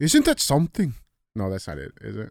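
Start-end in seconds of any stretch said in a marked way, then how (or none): 0.0-0.9 failed, pitched-up attempt at an Irish accent. Try out a voice for reading his tweet aloud, in a bad Conor McGregor Irish accent. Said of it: "I love the Irish accent".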